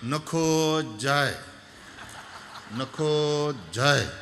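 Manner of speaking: slow cooing nakho jaay, dove-like; slow dove coo heard as nakho jaay; dove call as words. Shown as a demonstration. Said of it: "એમાં એને એવું લાગે".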